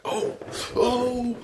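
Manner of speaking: high, alarmed little gasps of fear; startled cry. Retold or imitated. Dreamer suddenly falling upwards, crying out in alarm. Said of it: "You're like".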